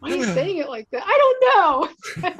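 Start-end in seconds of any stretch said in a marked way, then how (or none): 1.0-2.3 mock defensive. Playful defensive reply.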